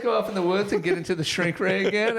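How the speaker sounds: high, quick put-on questioning voice; painting character voice. Podcaster acts out a painted wife questioning the men, painting character voice. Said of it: "they all have voices".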